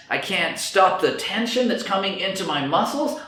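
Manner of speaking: panicky. Acted. Voicing panic symptoms.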